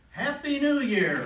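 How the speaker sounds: loud, high, drawn-out festive cheer; mock celebration. Throwing tissue confetti at Mom, mock celebrating. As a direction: call it out like a midnight reveler, stretched and high.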